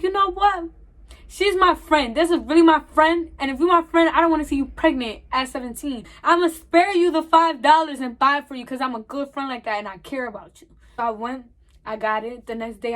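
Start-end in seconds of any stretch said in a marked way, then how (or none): 0.0-10.7 higher and louder, proud and insistent; emphatic self-talk. Retold or imitated. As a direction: talk yourself into being the good friend. Retelling her loyal-friend speech.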